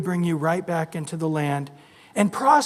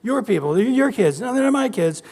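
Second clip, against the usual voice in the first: squabbling spouse; 3 semitones higher than usual. Retold or imitated. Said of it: "like the husband and wife".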